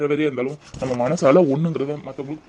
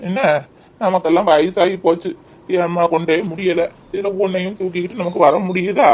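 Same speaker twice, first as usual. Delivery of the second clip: put-on grumbling old man; 4 dB louder than usual. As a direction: nag your wife like a weary old husband. Old husband carries on grumbling.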